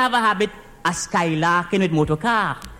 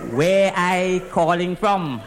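low, very slow echo of a question; slow, deliberate disbelief; incredulous echo; 4 semitones lower, slower than usual. Acted. Echoes boss's question in disbelief.

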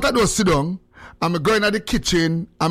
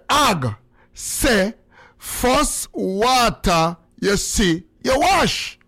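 retold angry outburst; much slower than usual. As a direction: stretch it out, then burst out mock-angry at the end. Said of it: "it's like anger".

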